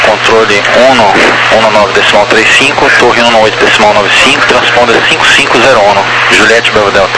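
crackly military radio. Real, not acted. Air traffic radio exchange.

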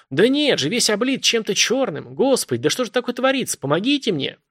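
high, frantic pleading; a terrified caller begging for help; a woman voiced high and desperate on the phone; panicked woman.

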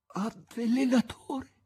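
high, loud, slow accusing cry; dying shout. A narrator's reading. The poisoned master cries out at Azazello, accusing. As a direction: hurl the accusation with last strength. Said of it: "fece ancora in tempo a gridare il maestro".

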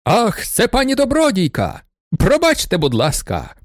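a prankster mocks the lady with fake courtesy; exclaiming. A narrator's reading. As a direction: overdo the polite apology. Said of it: "молодик вигукнув чудовим басом".

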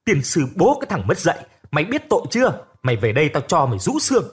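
a soaked father venting his rage at his son; furious father. Acted. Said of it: "Ông rít rằng".

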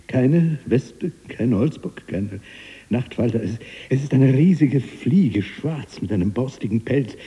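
loud, high, worked-up account; heated, high-pitched protest; agitated insistence. Acted. Agitated account of the impossible fly.

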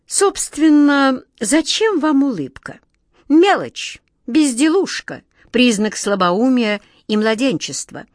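high, loud, scornful put-down; haughty dismissal. A narrator's reading. Smile collector talking the wizard out of smiling, haughtily dismissive. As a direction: belittle it with theatrical disdain.

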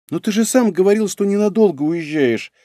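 high-pitched plaintive protest; pitiful. A narrator's reading. Woman reminding him of his promise, pitiful. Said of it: "произнесла она по-прежнему жалостливо".

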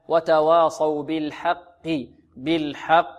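وتواصوا بالحق recited slowly with a doubled qaf; النطق الصحيح. Shown as a demonstration. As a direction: hold the qaf of بالحق, releasing it lightly into "qi". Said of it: "هكذا نطقها". (وتواصوا بالحق بإدغام القافين)

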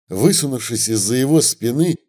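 ordinary delivery

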